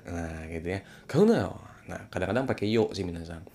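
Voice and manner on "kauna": high, sharp don't-go command; high stern prohibition. Shown as a demonstration. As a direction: forbid it sharply, pitch high. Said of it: "sambil nadanya tinggi". (larangan tegas dengan nada tinggi)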